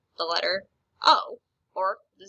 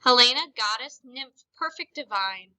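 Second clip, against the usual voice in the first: adoring; 5 dB louder than usual. Shown as a demonstration. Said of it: "is adoring".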